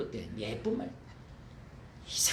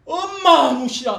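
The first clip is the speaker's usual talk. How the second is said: fleeing demon; 13 semitones higher, 14 dB louder, slower than usual. Retold or imitated.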